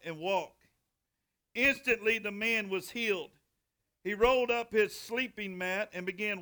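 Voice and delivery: measured Bible reading with pauses between phrases; deliberate, phrase-by-phrase pulpit reading; scripture reading. A narrator's reading. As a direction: read the story aloud to a congregation. Reads Bible story aloud.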